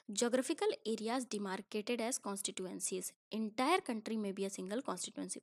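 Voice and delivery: slow, deliberate textbook reading; slow reading aloud. Acted. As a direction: read each English word out slowly for the class.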